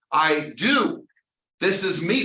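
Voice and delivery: ordinary talk, nothing marked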